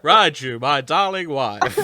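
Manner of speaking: barely holding it together in character; laughing through it. Real, not acted. Voice slipping, cracking up.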